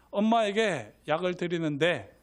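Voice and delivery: ordinary talk, nothing marked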